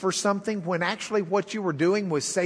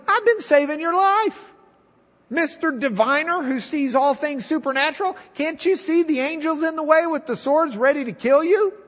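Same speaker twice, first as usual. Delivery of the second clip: higher, indignant talking donkey; Eddie Murphy donkey voice; 6 semitones higher than usual. Acted. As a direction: play Donkey from Shrek setting his master straight. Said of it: "with his best Eddie Murphy voice".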